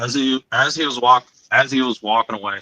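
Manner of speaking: holding back tears while telling it; choked up. Real, not acted. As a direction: voice catching with emotion. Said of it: "I'm getting, like, choked up talking about this".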